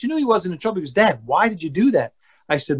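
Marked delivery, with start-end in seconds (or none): 0.9-2.1 mild, even-tempered question; calm and nice. Retold or imitated. Son questions dad after being yelled at, retold calmly. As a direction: ask it simply and calmly. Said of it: "Very calmly and nice".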